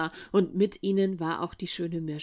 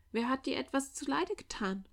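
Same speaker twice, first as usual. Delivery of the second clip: worried mother; 6 semitones higher, 4 dB quieter than usual. A narrator's reading. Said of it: "fragte die Witwe besorgt".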